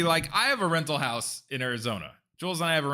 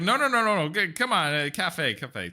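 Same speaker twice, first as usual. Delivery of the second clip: insistent imitated host; 2 semitones higher, 4 dB louder than usual. Imitating the landlord urging them to coffee. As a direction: mimic him pressing the coffee invite. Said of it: "he was like".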